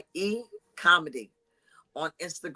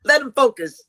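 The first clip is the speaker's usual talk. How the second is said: high, loud teasing shout; loud joking scold; 7 semitones higher, 10 dB louder than usual. Acted. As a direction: call her out loudly for a laugh.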